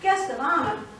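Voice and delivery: loud, hammed-up bossy scolding; booming husband. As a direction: boom out orders like an impatient husband. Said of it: "And then comes more booming".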